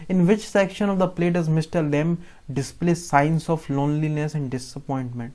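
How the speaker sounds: very slow, deliberate reading of an exam question; teacher dictating a question slowly. Shown as a demonstration. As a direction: read it out slowly for the class to follow. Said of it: "reading exam question aloud".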